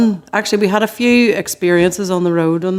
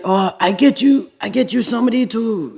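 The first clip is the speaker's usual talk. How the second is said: light mock French accent, a bit higher; lightly put-on French accent, playing the tour manager; 4 semitones higher than usual. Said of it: "excuse my French accent".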